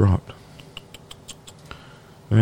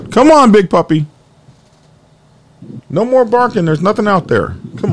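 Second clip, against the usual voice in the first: high coaxing voice to a dog; high sing-song dog talk; 10 semitones higher than usual. Real, not acted. Talking to barking dog at door.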